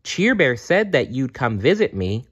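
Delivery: put-on a young girl admitting fear; little girl. Jenny talks to Funshine.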